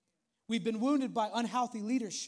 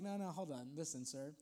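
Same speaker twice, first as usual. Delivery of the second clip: low, hushed objection; mock protest; 8 semitones lower, 13 dB quieter than usual. Gideon interrupting the angel to object, low quiet protest. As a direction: politely hold someone off, voice dropped low.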